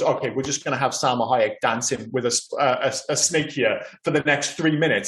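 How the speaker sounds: ordinary talk, nothing marked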